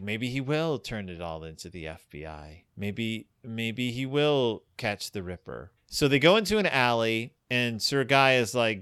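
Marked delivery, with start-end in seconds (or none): 0.0-5.7 low, soft, ominous murmur; hint at something dark; sinister hush. Retold or imitated. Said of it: "he's like".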